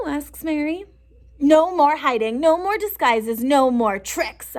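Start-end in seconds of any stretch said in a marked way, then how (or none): 1.4-4.6 loud determined yell. Acted. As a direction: shout it out, fed up. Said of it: "I yell".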